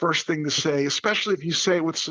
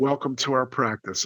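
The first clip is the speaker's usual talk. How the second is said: usual speaking voice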